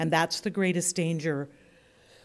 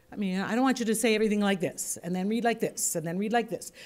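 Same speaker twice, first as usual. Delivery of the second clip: same little fall on every "this"; repetitive tune; faster than usual. Shown as a demonstration. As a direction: repeat one identical cadence for each phrase, ending on "like this". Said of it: "That just gets boring and dull".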